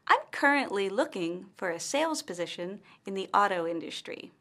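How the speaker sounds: key words like "sales" stressed, short pauses, rise on "area"; confident model delivery. Shown as a demonstration. Teacher models Amanda's networking pitch, confident, key words like "sales" stressed. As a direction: punch "Hello", stress key words, pause after them, lift "area". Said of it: "intonation that shows confidence".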